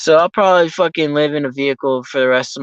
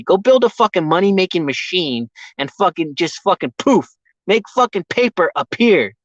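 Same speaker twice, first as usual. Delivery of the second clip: heated, a bit raised and pushing; angry rant. Real, not acted. Ranting at the state that takes his money, heated and raised. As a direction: vent it straight at them, building steam. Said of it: "that was my rant".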